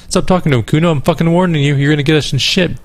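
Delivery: a high, mildly agitated warning; warning child. Acted. C warns Kuno off talking.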